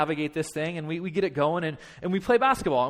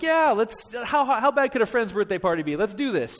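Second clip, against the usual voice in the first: higher-pitched breezy optimism; naive enthusiasm; 4 semitones higher than usual. Retold or imitated. Parents agreeing to a friend's birthday party, naive enthusiasm. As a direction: jump in naively, unaware of trouble. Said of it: "like, naive".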